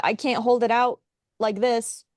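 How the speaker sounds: ordinary talk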